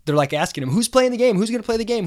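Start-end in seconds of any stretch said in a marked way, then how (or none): 0.7-1.4 mock reporter voice, higher and louder; a shrill-ish hounding newsman, imitated; pushy reporter. Reporters crowding the hapless guy. 1.4-2.1 mock reporter voice, higher; imitated reporters demanding an answer; pushy reporter. Reporters crowding the hapless guy.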